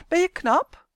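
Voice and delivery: lightly voiced doll quizzing, high and loud; haughty doll. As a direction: put a high, testing question to him. Doll quizzes boy in story. (lichtjes gespeelde verwaande pop)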